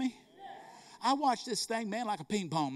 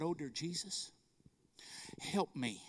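soft, low plea under the breath; retold inward prayer; 3 semitones lower, 12 dB quieter than usual. Preacher retelling his silent prayer at the counter, hushed. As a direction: pray it quietly to yourself. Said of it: "I started praying inside".

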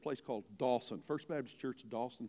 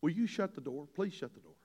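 gentle first request to a grandchild; mild request. Acted. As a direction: ask nicely, no pressure. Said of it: "the first time I might just say to them".

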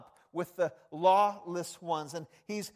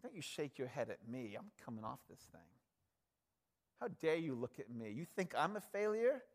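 imagined defiant Jesus; 4 semitones lower, 4 dB quieter than usual. Pretend. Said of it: "Could you imagine if he did?".

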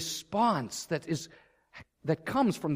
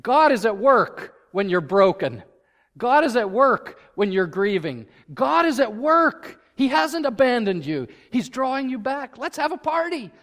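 professor's quote; 4 semitones higher, 5 dB louder than usual. Retold or imitated. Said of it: "he said".

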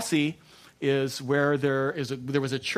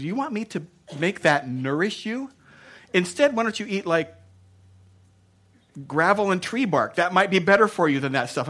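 lightly voiced God, raised and incredulous; God questioning the diner, higher and louder; 5 semitones higher, 4 dB louder than usual. God looks down at what we eat, incredulous. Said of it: "God looks down and says".

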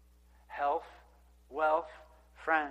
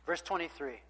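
normal talking voice

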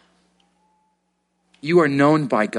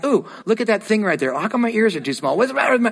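mock self-criticism; 5 semitones higher, faster than usual. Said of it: "Instead of going".

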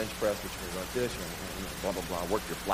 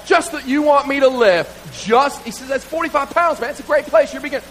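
coach insisting; 6 semitones higher, 3 dB louder than usual. Retold or imitated.

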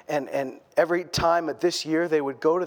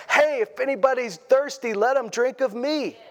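mock yell; 6 semitones higher than usual. Jesus calling out to the festival crowd, a lightly acted yell. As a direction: call out like Jesus in the crowd, but only lightly. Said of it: "he stands up and he yells".

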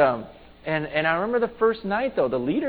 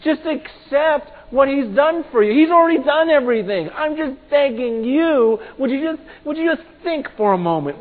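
urgent, raised-voice begging; Paul; 9 semitones higher, 8 dB louder than usual. Retold or imitated. Paul begging the crowd to be reconciled, pleading. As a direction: implore them, high and loud, stretching the key words. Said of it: "I'm begging you guys".

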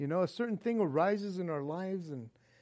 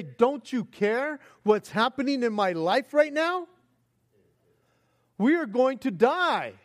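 mock yell; 2 semitones higher, 3 dB louder than usual. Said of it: "running in there to yell".

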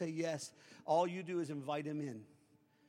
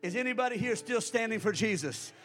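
shouted, much higher and louder, full force; hollering preacher; 9 semitones higher, 14 dB louder than usual. Real, not acted. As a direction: holler it at the whole church. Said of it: "the reason I hollered".

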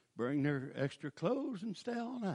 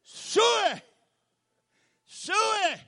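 high, loud hog call, drawn out; full-throated farm hog call; 16 dB louder, much slower than usual. Retold or imitated. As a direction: holler Suey like calling hogs to the trough. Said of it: "and say".

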